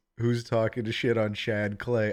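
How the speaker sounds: ordinary talk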